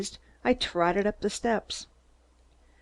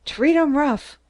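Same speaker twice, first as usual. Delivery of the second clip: much higher and louder cheering shout; 8 semitones higher, 6 dB louder than usual. A narrator's reading. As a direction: holler it like a rowdy pirate. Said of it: "shouted Captain Kidd".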